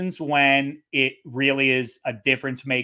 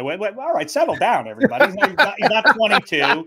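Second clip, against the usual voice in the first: raised, higher calming call; settle-down call; 8 semitones higher, 6 dB louder, faster than usual. Retold or imitated. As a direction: hush an overexcited crowd. Mock calming of fans.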